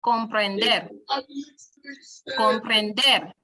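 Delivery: comprender with DER landed on a snap; stress on last syllable. Shown as a demonstration. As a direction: hit the final DER of comprender. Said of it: "on the last syllable".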